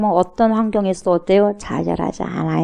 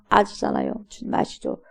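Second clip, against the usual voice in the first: 힘든 기도; 7 dB quieter than usual. Acted. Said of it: "내가 너무 힘들 때는".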